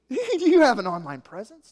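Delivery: "Do you have an online presence?" said with a laugh, lilting and mocking. Shown as a demonstration. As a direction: poke fun at the kids' phrase while laughing. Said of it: "something the kids say".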